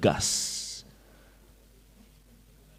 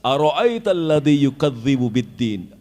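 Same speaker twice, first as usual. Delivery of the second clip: firm recitation; 3 semitones higher, 3 dB louder than usual. Shown as a demonstration. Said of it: "intonasinya kan tegas sekali".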